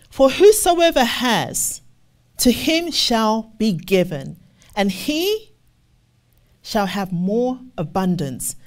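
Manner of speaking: slow, weighty scripture read. Acted. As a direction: lean into each word of the verse. Reads scripture in preaching cadence.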